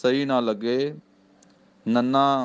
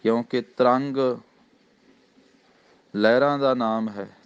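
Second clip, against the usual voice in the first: ordinary talk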